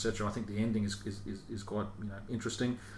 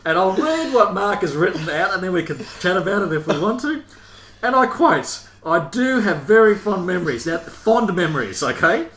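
loud, high, laughing read; reading through laughter; 8 semitones higher, 11 dB louder than usual. Real, not acted. Host reading the absent panelist's note, laughing loudly. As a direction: struggle to read the note for giggling.

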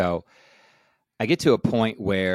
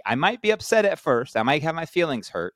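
earnest plea; 8 semitones higher, 6 dB louder than usual. Retold or imitated. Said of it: "I'm like".

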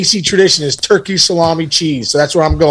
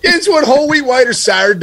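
higher Pittsburgh waitress voice; 8 semitones higher than usual. Retold or imitated. Repeating the waitress line for the host in a higher Pittsburgh accent. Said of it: "I'll never forget that story".

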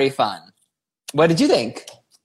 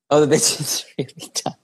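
hushed, breathy whisper aside; 4 dB quieter than usual. Acted. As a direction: whisper it under your breath. Mock pity after dumb answer.

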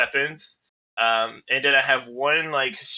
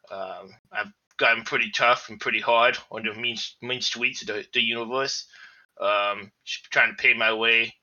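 gruff adult voice with a lisp; a tough little robot bear with a lisp; gruff lisping android bear. Acted. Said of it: "Why does he talk like this?".

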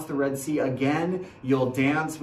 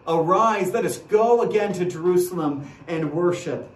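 louder, ringing summons to worship; calling out; 3 semitones higher, 5 dB louder than usual. Acted. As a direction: call the people up the hill. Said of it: "they're gonna call out".

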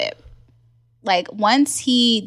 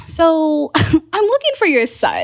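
nervous laughing ask; 7 semitones higher than usual. Retold or imitated. At his mom's door asking for her son, laughing nervously. Confronting boyfriend's mom, laughing.

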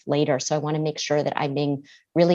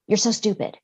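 lightly voiced, higher scornful self-talk; mock the nasty voice in her head; a hint of a sneering inner critic; harsh inner critic; 5 semitones higher than usual. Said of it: "she said".

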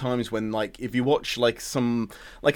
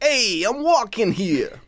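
put-on slow, higher, brash New York accent; bad New Yorker impression; 9 semitones higher, much slower than usual. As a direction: ham up a cheesy New York cabbie voice. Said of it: "a bad impression of, like, a New Yorker".

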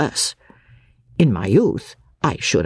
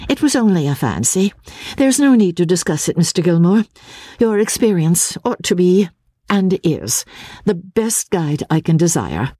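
higher, a lightly voiced earnest young woman; Miss Halcombe; 4 semitones higher than usual. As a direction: answer as Marian, quick and slightly troubled. Miss Halcombe deflects to Gilmore.

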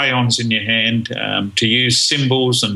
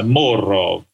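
slow, lightly put-on Russian accent on "more of"; a hint of a Russian brother drawing out "more of"; mock Russian accent; 2 semitones lower than usual. Shown as a demonstration. Speaker demoing his Russian brother in a light Russian accent. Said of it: "if you say it in a funny voice".

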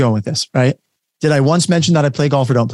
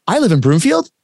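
"I live in Broomfield" higher, rising on "Broomfield"; statement as question; 5 semitones higher than usual. Shown as a demonstration. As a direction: turn "I live in Broomfield" into a question by tune alone. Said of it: "saying a statement like as a question".

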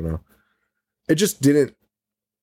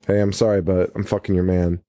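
mock-casual confession; casual retold quote, trailing lower; nonchalant; 4 semitones lower than usual. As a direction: break it to them offhand, barely bothered. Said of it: "well, nonchalantly".

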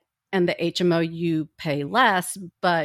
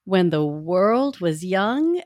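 grave ancient myth telling. Acted. Slow dramatic story opening.

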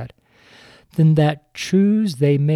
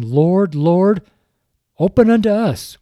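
Lord, Lord rising, then open unto us whispered high; pleading whisper; 5 semitones higher, 3 dB louder than usual. Acted. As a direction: beg at the shut door in a desperate hush. Re-reading plea, now whispered.

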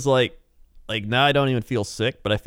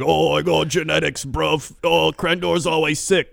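lightly voiced cocky friend, a touch higher; a hint of a smug friend bragging about his genetics; 5 semitones higher, slower than usual. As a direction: brush it off with light swagger. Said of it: "He'd always be like".

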